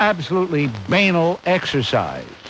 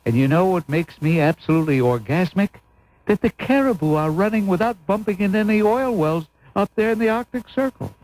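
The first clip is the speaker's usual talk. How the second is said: mock gushing wife; 3 semitones higher than usual. Host parodying a couple, gushing mock wife. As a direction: gush like a thrilled wife. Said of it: "And she says".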